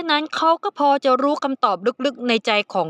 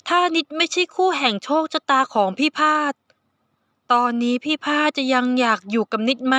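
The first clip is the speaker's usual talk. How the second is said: shy youngster asking; 3 semitones higher than usual. Acted. Nid asks shyly.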